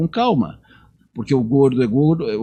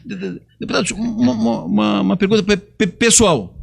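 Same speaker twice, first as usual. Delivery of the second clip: lightly imitated stutter with a laugh; mock stammer; 6 semitones higher than usual. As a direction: stumble on the first syllables while half laughing. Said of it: "Gago com gago é um trabalho".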